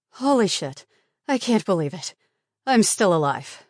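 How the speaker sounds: loud, high, breathless amazement; excited disbelief. Acted. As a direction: shout it out in stunned relief. Survivor cries out after the kill.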